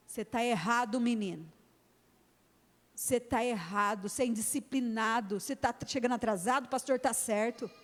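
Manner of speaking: a parent telling the son he is wrong; firm scolding parent. Retold or imitated. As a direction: scold the boy firmly, no shouting. Voices firm parent scolding child.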